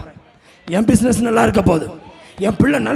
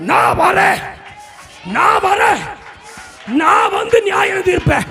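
voice of God the Father; 6 semitones higher than usual. Acted. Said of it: "அப்பா சொல்றாரு".

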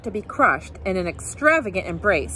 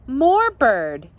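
put-on baby crying out, higher and louder; excited cry; 4 semitones higher, 5 dB louder than usual. A narrator's reading. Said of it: "he cried".

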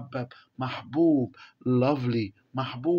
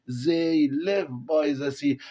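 slow reading aloud; much slower than usual. Shown as a demonstration. Teacher reading the text to the class, very slowly. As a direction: read each English word very slowly for the class.

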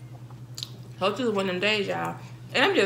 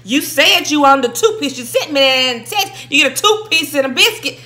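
louder, half-hearted imitation of the quarrel; mock fussing; 3 semitones higher, 6 dB louder than usual. Retelling the deli argument, mock angry fussing. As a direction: imitate the girl cussing her friend out. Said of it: "all I understood was".

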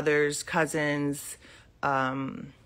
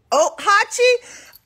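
very high, slow, louder coo of a name; calling pet; 9 dB louder, much slower than usual. Real, not acted. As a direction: stretch the name out sweetly high.

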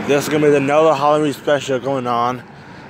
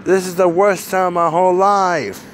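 ordinary delivery

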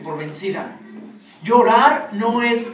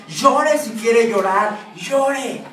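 emphatic urging; 3 semitones higher, much slower than usual. Real, not acted. Preacher urging the crying congregation.

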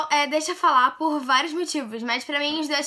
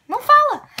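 exclaimed no; 11 semitones higher, 10 dB louder than usual. Acted. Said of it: "a gente fala como um oi?".

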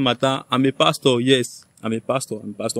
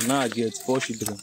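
softer, lower and slow; deflated admission; 6 semitones lower, 8 dB quieter than usual. Acted. Pastor confessing four children, deflated and slow. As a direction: admit it heavily, slowly.

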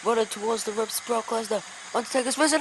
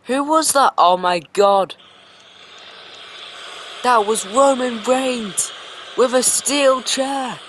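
screaming shock; 10 dB louder than usual. Real, not acted. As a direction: erupt at the surprise attack. Surprise chair attack after match.

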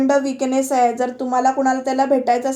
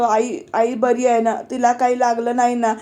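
weak voice. Retold or imitated. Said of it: "Sameer क्षीण आवाजात म्हणतो".

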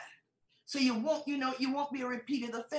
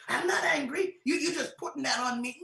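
loud, higher mock-indignant protest; shocked denial; 3 semitones higher, 5 dB louder than usual. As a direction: act out someone hotly denying it. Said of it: "why are you so shocked".

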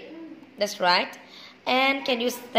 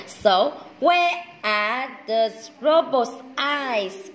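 slow coaxing; much slower than usual. Real, not acted. Teacher slowly prompting a child.

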